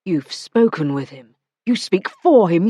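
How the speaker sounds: a man's voice turning hard and accusing; cold, accusing demand; Matthew, accusing. Acted. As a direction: press her for the truth.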